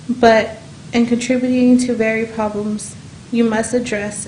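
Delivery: holding back tears and pushing through; emotional. Real, not acted. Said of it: "I'm gonna get emotional".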